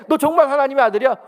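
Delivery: loud, high taunting Satan; mocking Satan. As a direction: jeer it up high and loud like the tempter. Preacher mocks Satan's taunting question. (높고 크게 비웃듯 묻는 사탄)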